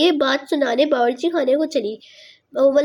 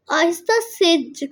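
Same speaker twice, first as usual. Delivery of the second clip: slowly; 2 semitones higher, slower than usual. Shown as a demonstration. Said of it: "مطلب، آہستہ سے اسے کہا".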